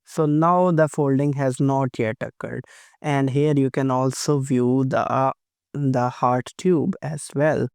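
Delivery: hoarse voice from flu and sore throat. Real, not acted. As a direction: talk through a sore throat. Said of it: "I'm having a bit of flu and sore throat, so my voice might be affected".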